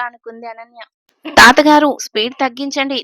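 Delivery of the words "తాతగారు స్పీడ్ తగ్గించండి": mock fear. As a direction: pretend to panic at the speed. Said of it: "నా మట్టుకు నాకు భయమేస్తుంది". (నటించిన భయంతో గట్టిగా అరుపు)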